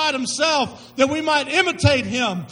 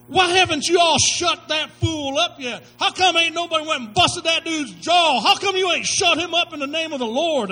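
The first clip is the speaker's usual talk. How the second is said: indignant shout; 2 semitones higher than usual. Retold or imitated. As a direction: shout it at the cowards. Young David challenging the army.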